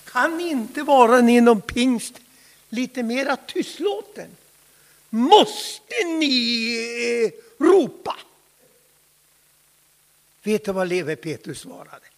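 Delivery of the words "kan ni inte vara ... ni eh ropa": louder, pressing the question home; louder complaint. Acted. Critics demanding Pentecostals stop shouting, loud complaint. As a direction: push the complaint out with force. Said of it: "Och de frågar Levi Petrus".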